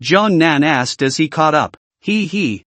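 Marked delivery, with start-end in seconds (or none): 2.0-2.7 light, high, soft giggle. A narrator's reading. Teasing her old classmate, a soft giggle. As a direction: give a small playful giggle. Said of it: "Jiang Yimin laughed".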